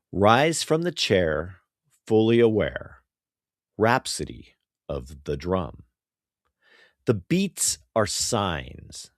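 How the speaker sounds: deliberate verse delivery with pauses; poetry reading. Acted. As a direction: read it as a poem, line by line. Reads his poem aloud.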